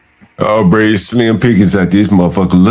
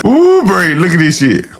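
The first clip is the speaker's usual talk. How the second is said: amused exclaim; 9 semitones higher than usual. Real, not acted. Gawking at yacht photos.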